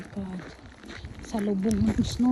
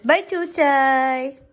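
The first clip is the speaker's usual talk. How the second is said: slow, louder drawn-out bye; slow goodbye call; 2 semitones higher, 6 dB louder, much slower than usual. Real, not acted. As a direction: sing out bye to the dog. Calling goodbye.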